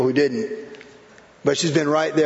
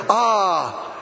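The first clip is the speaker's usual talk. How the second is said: ironic laughing bliss; 3 semitones higher, slower than usual. Retold or imitated. Ironic bliss about freeway noise.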